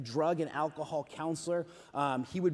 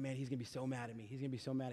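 much softer, quick worried murmur to himself; worried hush; 6 semitones lower, 13 dB quieter, much faster than usual. Retold or imitated. Youth leader fearing angry volunteer, hushed fast worry. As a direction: say it under your breath, dreading it.

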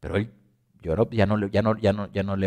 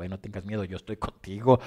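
gently reassuring; 3 semitones lower than usual. Pretend. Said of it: "le habló y le dijo".

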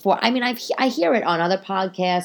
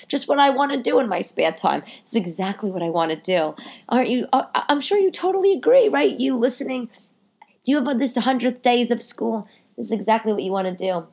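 heavy sarcasm; 4 semitones higher than usual. Real, not acted. Mocking enthusiasm.

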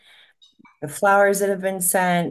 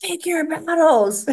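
high, slow mock-exasperated line to her husband; snapping back at a tantrum, hammed up; exasperated retort; 12 semitones higher, 3 dB louder, slower than usual. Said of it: "and I'm like".

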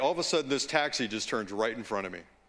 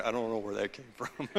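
laughing; 3 semitones lower, 5 dB quieter, faster than usual. Real, not acted. Laughing at own accent slip.

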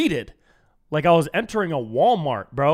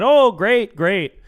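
mock gushing stranger; 5 semitones higher, 8 dB louder, much slower than usual. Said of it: "they said".

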